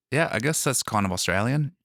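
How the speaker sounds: Australian accent. Shown as a demonstration. Showing a friend how Australian goes, Australian accent. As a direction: draw out the A's like an Australian. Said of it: "do Australian".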